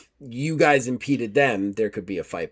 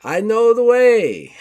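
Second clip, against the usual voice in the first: a prim, courteous investigator, raised pitch; formal gentleman; 9 semitones higher, 8 dB louder, slower than usual. Acted. GM as Gustav taking his leave of Miss Carlton, formal and polite.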